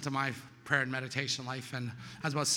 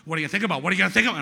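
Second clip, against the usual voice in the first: loud nagging thought, climbing higher; noisy inner voice; 5 semitones higher, 12 dB louder, much faster than usual. Retold or imitated. Mind intruding on meditation, loud nagging. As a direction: badger insistently, getting louder and higher.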